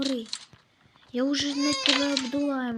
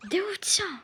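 "Де овця?" whispered, breathy and higher; 7 semitones higher, 3 dB louder than usual. Real, not acted. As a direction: hush it right down. Asks, then whispers again. ("Де овця?" пошепки)

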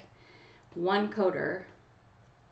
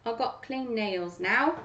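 hammed-up British accent, slower; bad British accent; 2 semitones higher, slower than usual. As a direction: slip briefly into a mock British accent. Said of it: "this really horrible British accent".

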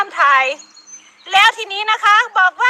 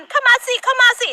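taunting challenge; 5 semitones higher than usual. Retold or imitated. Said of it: "ท้าทาย".

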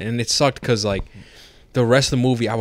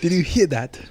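commander's voice; 7 semitones higher than usual. Retold or imitated. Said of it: "Come on, man".

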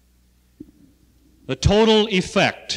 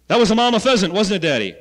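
imitating little son; 8 semitones higher, 6 dB louder, faster than usual. Little son's voice in a story.

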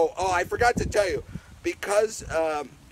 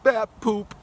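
playful reveal; 7 semitones higher, 6 dB louder than usual. Acted. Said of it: "You wanna know what guano is?".

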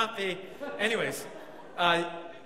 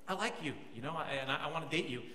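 softer, lower, gentle declaration; suave confession; 5 semitones lower, 6 dB quieter, faster than usual. Retold or imitated. Preacher retelling his confession to her, soft and suave. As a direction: say it quietly with some finesse. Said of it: "a little more suave and a little more finesse".

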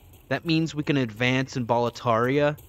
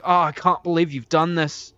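quoting the meme; 6 semitones higher, 7 dB louder than usual. Retold or imitated. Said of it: "And then he's like".

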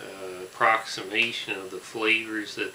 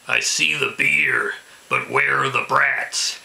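excited; 7 dB louder than usual. Acted. Mock dramatic announcement before tasting.

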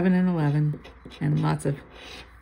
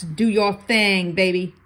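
urging; 6 dB louder, slower than usual. Real, not acted. Urging the bonus box.

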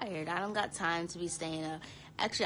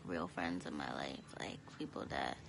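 soft unvoiced whisper; 6 dB quieter than usual. Real, not acted. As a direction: drop to a whisper. Trailing aside.

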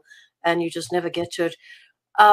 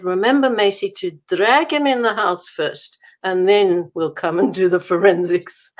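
put-on a light thick Afrikaans accent on the policeman's words; 4 dB louder than usual. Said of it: "in his thick accent".

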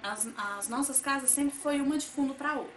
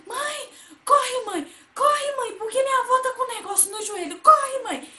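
high, loud, tearful pleading for mom; a scared child begging mom to hurry; panicked crying call; 11 semitones higher, 9 dB louder than usual. Retold or imitated. Child runs to mother, crying in panic.

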